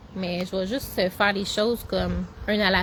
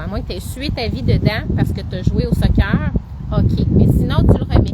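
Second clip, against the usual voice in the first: raised voice against the wind; shouting over wind; 4 dB louder than usual. Real, not acted. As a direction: push your voice over the gusts. Windy outdoors, asks if heard.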